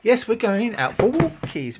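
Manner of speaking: high sing-song walkies promise; pet talk. Acted. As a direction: coo it up high to the dog.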